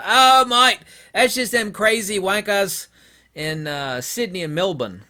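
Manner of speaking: high, loud hammed-up Australian accent; mock Aussie bloke. Australians dismissing the city crazies, hammed-up Australian accent. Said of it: "people say".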